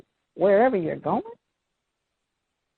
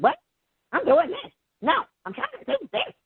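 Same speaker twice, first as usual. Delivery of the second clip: high, mock-whiny kid sass; sassy kid. Teacher mimicking a sassy student, high and whiny. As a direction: toss it off like a mouthy child. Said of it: "They get sassy attitudes".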